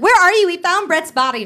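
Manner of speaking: high, urgent imitated phone call; mock frantic. Retold frantic phone call from friend.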